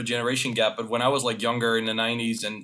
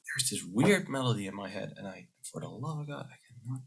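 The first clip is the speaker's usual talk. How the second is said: put-on grown kid; 3 semitones lower, 9 dB quieter than usual. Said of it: "Might be like".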